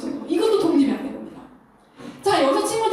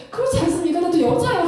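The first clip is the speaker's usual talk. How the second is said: ordinary delivery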